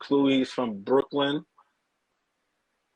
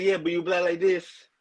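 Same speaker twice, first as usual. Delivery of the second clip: owner answers; 5 semitones higher than usual. Retold or imitated. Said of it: "He said".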